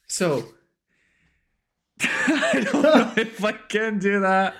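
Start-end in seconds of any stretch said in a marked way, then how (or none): 2.0-4.5 nervous laugh. Real, not acted. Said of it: "I am gonna try to do my best Scottish impression".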